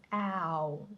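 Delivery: owl with the mouth wide open like an A. Shown as a demonstration. Teacher contrasting owl with oval, mouth open. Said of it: "so your mouth has to be open".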